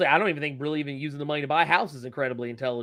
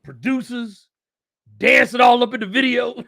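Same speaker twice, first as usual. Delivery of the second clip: higher, imitating a music mogul; hyped mogul pitch voice, pitched up; Suge Knight impression; 7 semitones higher, 5 dB louder than usual. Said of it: "was like".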